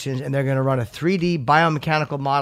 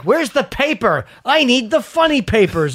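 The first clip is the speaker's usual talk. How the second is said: mock whiny spouse; 7 semitones higher, 4 dB louder than usual. Mocking spouse in the bathroom.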